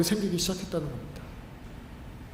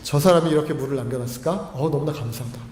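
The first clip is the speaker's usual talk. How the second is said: loving gratitude; 3 semitones lower than usual. Acted. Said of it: "사랑하는 마음이 생기는 겁니다".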